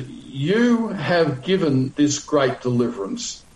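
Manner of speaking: "You" drawn out and given weight; slow quote with the emphasis on "You"; stress on YOU. Retold or imitated. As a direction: lean slowly on "You" to make it emphatic. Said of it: "in the Hebrew is in the emphatic position".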